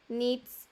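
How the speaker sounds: "needs" with a long "ee"; long I sound. Shown as a demonstration. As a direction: model "needs", holding the "ee". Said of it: "sonido largo de I". ("needs" con sonido largo de i)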